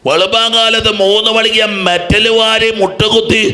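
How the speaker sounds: impassioned high-pitched exhortation; fervent preaching. Retold or imitated. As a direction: testify with passion, then challenge the crowd. Preaching retold testimony and challenge.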